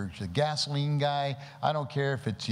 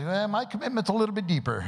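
higher, quicker voice for a talking pig; reluctant pig; 8 semitones higher, faster than usual. Acted. Pig answering the chicken about breakfast, higher and quick. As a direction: play the pig's punchline, pitched up and hurried. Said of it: "The pig looks over and says".

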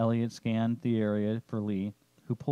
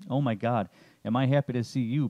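raspy; 3 semitones higher, 4 dB louder than usual. Acted. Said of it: "Pops rasps-, rasped out".

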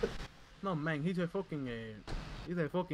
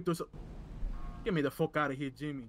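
lightly put-on Latino accent; mild hammed-up Latino accent. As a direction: talk it through a Spanish-flavored accent. Held accented character.

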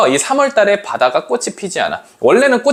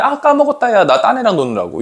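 acted offhand excuse, high start dropping away; mock forgetful friend; careless friend's excuse; 4 semitones higher than usual. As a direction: casually brush off a missed meetup. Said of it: "친구의 작은 잘못이".

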